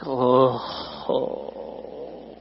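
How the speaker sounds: low, fading, breath-only oh; acted dismayed groan. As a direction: let a mock groan die away softly. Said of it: "and I'm like".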